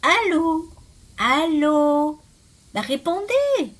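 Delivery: high, loud, drawn-out hellos; increasingly impatient caller; insistent phone calling. A narrator's reading. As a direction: demand an answer down the phone. Nobody answers on the phone.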